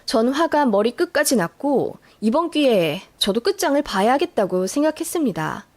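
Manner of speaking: usual speaking voice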